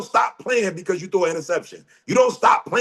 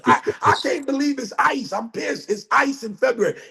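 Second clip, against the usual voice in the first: higher, whiny mock complaint; a mocking imitation of someone shocked by snow; mock whine; 5 semitones higher than usual. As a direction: mimic a spoiled complainer. Mocking people who complain.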